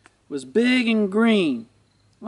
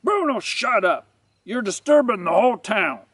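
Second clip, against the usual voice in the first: raised-pitch telling-off of a dog; scolding master; 4 semitones higher than usual. Acted. Master telling off his barking boxer, scolding. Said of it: "getting a good scolding from his master".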